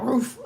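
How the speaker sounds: short bark-like "roof" at a smell; imitated recoil noise. Woman in commercial smelling her hands, mock recoil. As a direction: bark it out as a mock reaction to a stink. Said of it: "she smelled her hands and she was like".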